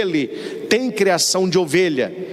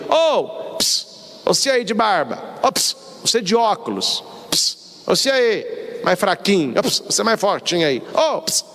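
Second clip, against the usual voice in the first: hailing a stranger. Acted. Calling someone whose name you don't know, hailing. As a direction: lightly act out flagging down nameless people. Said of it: "Jesus não fala assim com a gente".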